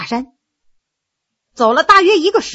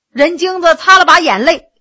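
ordinary delivery, nothing marked

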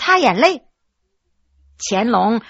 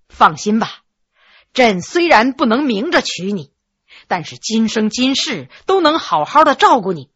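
soft-spoken; 3 semitones lower than usual. Acted. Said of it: "柔声说".

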